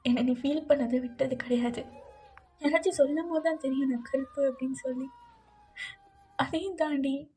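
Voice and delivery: tender, halting voice with long pauses; tearful farewell letter. Acted. Wife's last letter to JK, tender and tearful. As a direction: speak a last letter gently, close to tears.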